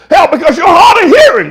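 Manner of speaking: shouting it out, hoarse with fervour; loud preaching. Real, not acted. Pastor shouting at the congregation he calls hard of hearing. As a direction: yell back at the hard of hearing. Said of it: "Why you talking so loud?".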